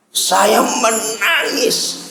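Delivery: very slow, softened, drawn-out words; hushed, heavy confession of weeping; sorrowful. Real, not acted. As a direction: let grief stretch each word quietly. Recalls crying at the death.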